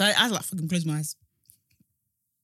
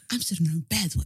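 laughing; 4 semitones lower, faster than usual. Real, not acted. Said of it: "I can't stop laughing".

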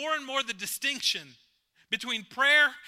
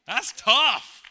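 1 emphatic; 5 semitones higher, 11 dB louder than usual. Acted. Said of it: "That is some hard stuff".

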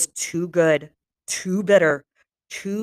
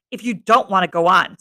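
sarcastic; 4 dB louder than usual. Acted. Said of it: "said the voice sarcastically".

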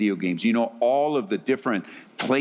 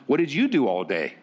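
offhand husband asking what she did; insensitive husband question. Retold or imitated. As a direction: toss it off like a clueless husband. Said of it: "I ask the proverbial question".

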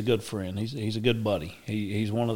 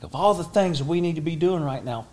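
high, loud exasperated scolding breaking into a laugh; exasperated yelling; 8 semitones higher, 8 dB louder than usual. Retold or imitated. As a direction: yell it through laughter. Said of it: "I'm yelling at him now".

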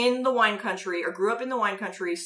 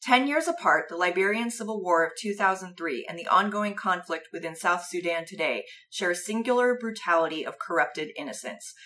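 reading the title cards; 3 semitones lower, 3 dB quieter than usual. Shown as a demonstration. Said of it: "would you like to read for us the title cards".

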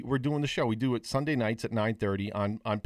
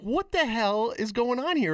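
higher, slower mock alarm; retold disbelief; 10 semitones higher than usual. Telling a friend about her odd screen, higher mock alarm. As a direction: pitch it up and stretch it out in mock shock. Retelling reaction to the shared screen.

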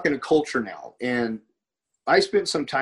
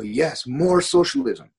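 slow, higher mock-eager yes; emphatic agreement; 4 semitones higher, slower than usual. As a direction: imitate an emphatic, drawn-out agreement. Acts out the locals' eager answer.

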